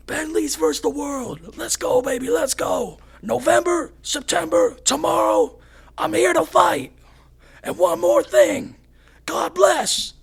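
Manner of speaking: high, hyped-up fighter's callout; freaking out. Retold or imitated. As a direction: re-enact a wild post-fight victory speech. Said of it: "I was freaking right out".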